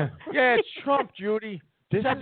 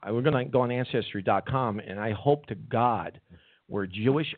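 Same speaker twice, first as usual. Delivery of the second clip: mock low voice; 5 semitones lower than usual. Son mocks in a low voice.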